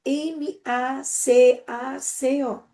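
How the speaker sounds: "M A C A C O" named slowly, one letter at a time. Shown as a demonstration. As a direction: spell "M A C A C O" out slowly for a child. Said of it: "depois eu vou separar por letra".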